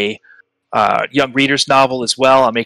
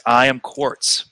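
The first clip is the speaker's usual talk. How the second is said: slow, deliberate rock being; a lightly voiced stone creature, taking its time; gravelly voice; much slower than usual. Rock being introducing itself inside Lyra's mind, lightly gravelly voice. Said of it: "a gravelly voice that says".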